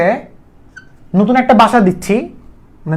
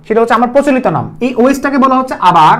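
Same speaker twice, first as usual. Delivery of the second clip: ordinary talk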